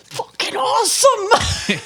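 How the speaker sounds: drawn out slowly and high through laughter; a friend cracking up in delight; laughing approval. Retold or imitated. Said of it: "Ocean's like".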